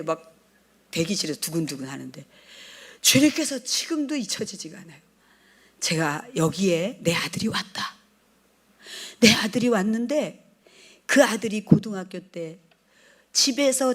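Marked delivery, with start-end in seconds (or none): 5.8-8.0 hushed whisper. Retold or imitated. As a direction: whisper it low, breath only. Lord speaking to her. (낮게 속삭이듯)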